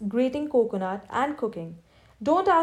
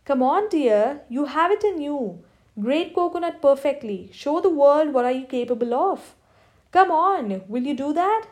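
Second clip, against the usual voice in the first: a lightly raised, hammed-up pep-talk voice; mimicking the motivational trainer; 3 semitones higher than usual. Husband mimics the trainer to his wife while she grates coconut, mock pep talk. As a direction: coach her like a mock motivational speaker, pitched a bit higher. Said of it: "mimicking the trainer".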